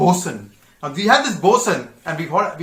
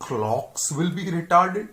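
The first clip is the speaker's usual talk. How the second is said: slow disbelief; much slower than usual. Retold or imitated. Cadet repeats in disbelief.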